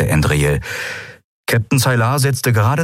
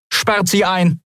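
commanding pirate captain; 12 semitones higher, slower than usual. Acted. Pirate captain orders prisoners locked.

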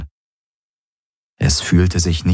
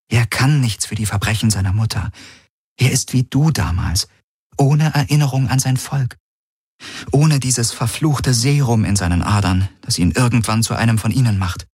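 put-on higher, insistent young woman; 5 semitones higher than usual. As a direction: plead for the baby, higher. Kirai argues for the child.

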